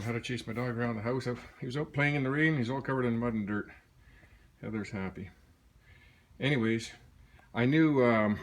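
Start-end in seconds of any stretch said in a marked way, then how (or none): 0.0-3.7 winded from chasing the dog; out of breath. Real, not acted. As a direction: talk while catching your breath. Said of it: "I'm huffing and puffing".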